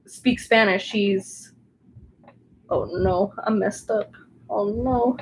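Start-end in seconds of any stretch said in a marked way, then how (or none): 2.7-5.2 quiet dismay turning to self-reassurance; soft self-soothing. Real, not acted. Crafter messed up her diamond painting, softly consoling herself. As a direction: murmur softly to yourself, rising toward the end.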